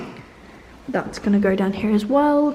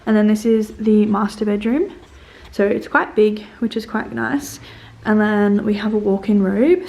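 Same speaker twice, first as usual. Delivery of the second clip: echoing in a bare room; echoey empty room; 3 dB louder than usual. Real, not acted. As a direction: voice bouncing off empty walls. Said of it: "I'm sorry if it's really echoey in here".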